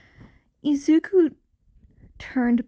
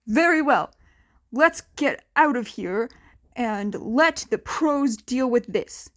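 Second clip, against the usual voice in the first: firm declaration. Acted. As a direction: declare it like a class president. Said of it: "Ida declared".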